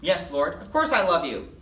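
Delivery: talking through a mouthful; mouth full. Acted. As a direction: say it while chewing. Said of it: "still with his mouth full".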